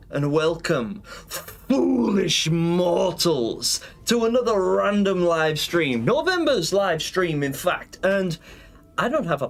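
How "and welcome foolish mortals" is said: slow drawn-out villain welcome; dark lord. Acted. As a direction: savor foolish mortals like a villain. Villain greeting to viewers.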